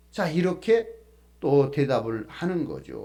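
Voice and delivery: normal talking voice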